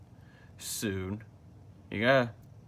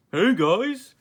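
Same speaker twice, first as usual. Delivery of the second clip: high, loud call across the way; 10 semitones higher, 8 dB louder than usual. Acted. Friend shouting hello to the group from a distance, high and loud.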